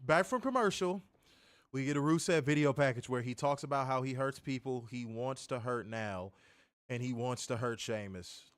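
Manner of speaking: punchy announcer read, lifting the opening; show voice. Shown as a demonstration. Host rereading the recap in his show voice, announcer read. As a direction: hit it like a wrestling show host. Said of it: "I'ma get back in my swing of my show voice".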